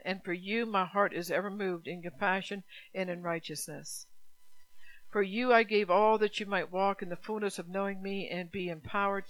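solemn, unhurried declaration of sacrifice. Acted. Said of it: "preacher voices God's words".

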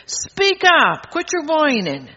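high, firm scold as God; voicing God telling us off; God scolding a whining believer, high and firm. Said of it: "don't you think God says that".

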